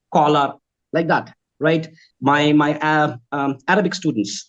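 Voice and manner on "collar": Spanish-accented "collar", with an o vowel. Shown as a demonstration. Trainer imitating Spanish trainees, accented "collar". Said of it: "My Spanish, uh, trainees".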